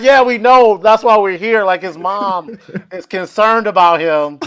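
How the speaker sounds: retold emphatic reassurance, easing off at the end; mock insistence. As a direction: insist loudly as the acted officer. Acting the police replying.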